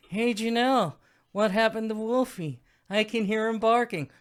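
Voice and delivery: high, put-on Terminator movie quote; imitated film character. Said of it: "I want her to then turn into".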